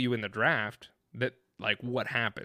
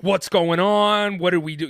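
much higher and louder, panicked cry; freaking out; 6 semitones higher, 11 dB louder than usual. Retold or imitated. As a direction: blurt it out in alarm as a worried fan. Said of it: "And I'm freaking out".

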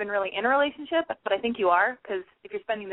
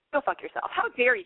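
mock outrage; 5 semitones higher than usual. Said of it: "Just kidding".

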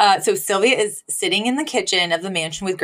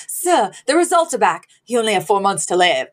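mock grave butler. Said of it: "he goes".

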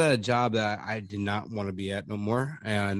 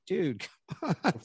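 laughing protest; 7 semitones higher, slower than usual. Retold or imitated. Retold complaint, laughing.

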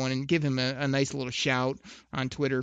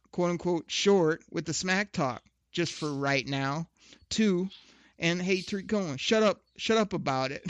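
mocking retort read; 4 semitones higher than usual. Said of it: "my retweet to this was simply this".

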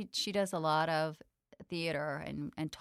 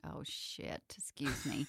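hushed self-correction, almost silent; embarrassed whisper to herself; whispered aside; 4 semitones lower, 11 dB quieter, slower than usual. Real, not acted. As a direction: whisper it under the breath. Swearing aside under her breath.

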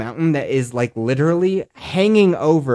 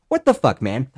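exasperated disbelief. Real, not acted. Exasperated outburst at rangers.

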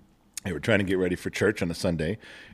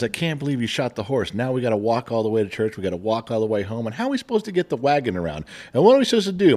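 nagging wife; faster than usual. Retold or imitated. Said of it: "And she says".

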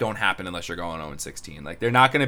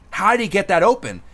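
1 retold puzzled question; 9 semitones higher, 4 dB louder than usual. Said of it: "he's like".

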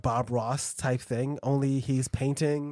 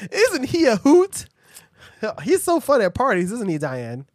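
much higher and louder, gushing; overexcited TV host; 6 semitones higher, 7 dB louder than usual. Pretend. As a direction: gush like a chirpy host. Mock cheery TV host.

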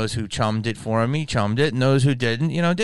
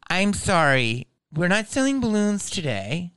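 lightly voiced Chicano clerk accent, higher; 7 semitones higher than usual. Party City clerk refusing balloons, light Chicano accent. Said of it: "I'm gonna do an accent".

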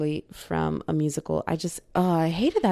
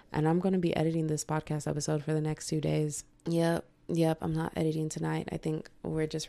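tired and quiet; 6 dB quieter than usual. Real, not acted. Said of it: "I'm so tired".

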